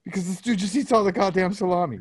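high, exasperated complaining; comic outrage, voice climbing high; exasperated rant. Real, not acted. Ranting about son eating salami.

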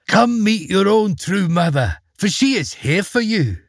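a hint of honeyed lure; warm false call. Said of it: "cried out in a warm voice".

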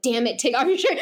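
exasperated, insistent retold order; mildly acted impatient repeat of a command; demanding. Demanding lover after her refusal, mock exasperated order. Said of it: "he's a very demanding kind of lover".

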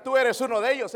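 mock the accusers pointing at Peter; accusing enemy. Pastor voicing Peter's accusers, loud and high.

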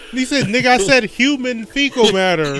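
high, amused exaggerated retort; mock exasperation. Co-host parodying the witness for a laugh, high mock indignation. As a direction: push it up high, half laughing.

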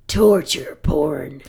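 very slow, low horror-villain heckle; Freddy Krueger. Retold or imitated. Unseen horror star calls out a genre, slow villain voice. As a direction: draw it out low and menacing. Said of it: "we all recognize this voice".

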